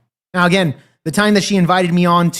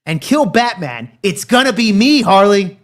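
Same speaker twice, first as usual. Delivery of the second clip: louder toward the end, lightly acted villain's scolding; Joker; 2 semitones higher, 4 dB louder than usual. Retelling Joker scolding his girlfriend, lightly acted menace. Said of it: "and says".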